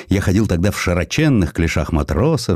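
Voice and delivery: ordinary delivery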